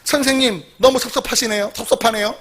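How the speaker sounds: mock-affronted, with stretched key words; offended mother. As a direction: act out a mother's huffy blame-shifting. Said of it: "기분이 나쁘니까 이렇게 말해요".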